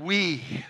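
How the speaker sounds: "We." said alone, firm and deliberate; single out "We." as the key word; stress on we. Shown as a demonstration. Pastor drills the congregation on the pronoun, firm stress. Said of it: "Say it again".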